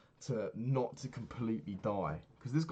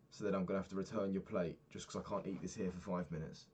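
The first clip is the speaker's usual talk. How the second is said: usual speaking voice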